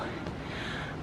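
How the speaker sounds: heavy exhale; tired sigh. Real, not acted. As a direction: breathe out, worn out. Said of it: "I'm out of breath".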